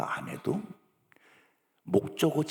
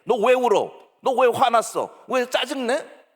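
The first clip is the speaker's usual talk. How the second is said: loud, higher scolding demand; irritated interrogation; 13 semitones higher, 9 dB louder, slower than usual. Retold or imitated. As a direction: badger the child for a reason. Parent demanding why child cries. (우는 아이를 다그치는 크고 높은 꾸중)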